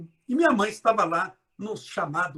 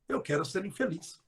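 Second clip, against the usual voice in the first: softer, no não; 2 semitones lower, 8 dB quieter than usual. Shown as a demonstration. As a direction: drop it to a quiet aside. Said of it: "Corta o não". (mais baixo, sem o não)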